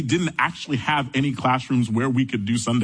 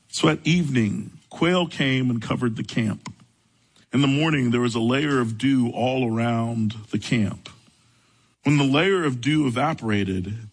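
scripture reading; 2 semitones lower than usual. A narrator's reading. Reads scripture passage aloud.

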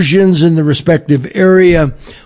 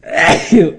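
sneeze. Real, not acted. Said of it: "sorry, I had to sneeze".

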